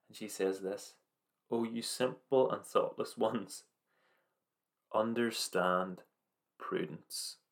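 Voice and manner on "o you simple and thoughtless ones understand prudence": slow, drawn-out words, last word fading to a whisper; slow solemn verse. Acted. Slow emphatic verse quote.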